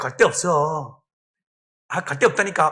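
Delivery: sly, cheeky, brazen feigned innocence, low. Retelling how a spirit being cast out in church answered, mimicking a sly, cheeky reply. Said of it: "능청스럽게".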